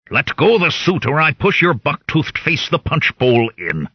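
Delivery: put-on growled threat in a heavy Mistledrossian accent; thick Mistledrossian accent. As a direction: push the Mistledrossian accent hard, menacing. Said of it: "I growled in my thickest Mistledrossian accent".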